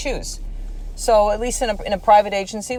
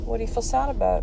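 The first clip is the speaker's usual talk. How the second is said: soft, raised-pitch tender question; gentle comforting parent; 6 semitones higher, 4 dB quieter than usual. Retold or imitated. Mom to sad son, softly coaxing. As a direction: ask gently, keeping it light and high.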